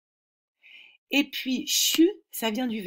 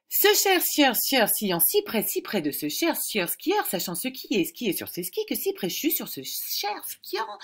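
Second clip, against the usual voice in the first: tongue twister speeding up; 3 semitones higher than usual. Shown as a demonstration. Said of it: "Je réessaye".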